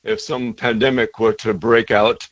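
a light hint of a proper British accent; mock a posh British CEO, understated. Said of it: "he says with a British accent".

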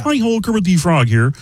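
pinched, nasal Muppet voice; Kermit the Frog. Acted. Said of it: "Kermit the Frog is a nasal voice".

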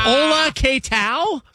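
hammed-up Spanish accent greeting; mock Spanish greeting. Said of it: "put on a sombrero".

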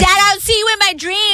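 high-pitched, hammed-up daughter voice; mock daughter. Co-host plays the daughter answering dad.

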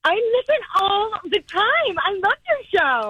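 high-pitched, gushing enthusiasm; real delight, voice shooting up; excited fan. Real, not acted. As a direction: gush like a thrilled fan on air. Fan thrilled by surprise radio call.

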